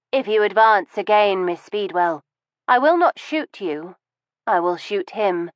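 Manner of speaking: lightly voiced widow with a gun, measured and menacing; a hint of a lady levelling a revolver; cold threat. Mrs Ramsforth holds them at gunpoint.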